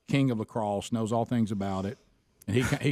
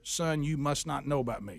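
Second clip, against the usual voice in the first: mock coach warning; 2 semitones higher, 4 dB quieter than usual. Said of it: "Dad, you said to a player".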